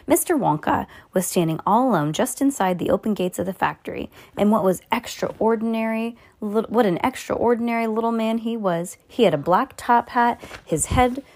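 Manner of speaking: measured read-aloud storytelling with lively emphasis; story narration. A narrator's reading. Reading a Roald Dahl chapter to a young listener, expressive story narration.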